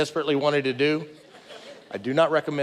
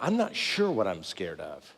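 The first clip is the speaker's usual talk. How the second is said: quiet admission; 9 semitones lower, 8 dB quieter than usual. Real, not acted. Preacher confessing to the congregation, quietly unsure. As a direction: lower and softer, unsure. Admits uncertainty about fear.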